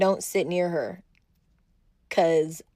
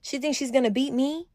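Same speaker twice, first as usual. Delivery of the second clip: higher-pitched mock taunting; imitated trash talk; 4 semitones higher than usual. Rival jeering during the card game, mock taunting. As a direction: mimic a rival's scornful jibes. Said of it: "she starts saying stuff like".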